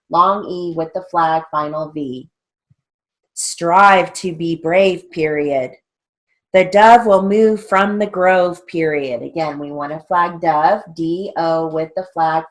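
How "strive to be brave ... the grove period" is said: slow, louder drill-sentence dictation. Shown as a demonstration. Teacher reading shorthand drill sentences to students, slow dictation. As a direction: read it out deliberately for note-takers.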